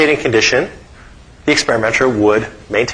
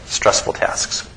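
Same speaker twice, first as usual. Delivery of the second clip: "stressful tasks" whispered, slow and soft; whispered fade; 7 dB quieter, much slower than usual. Shown as a demonstration. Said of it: "arousal comes down".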